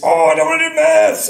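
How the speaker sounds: put-on high, loud whining child; whiny kid. Son refusing maths, voiced.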